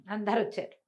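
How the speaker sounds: ordinary delivery, nothing marked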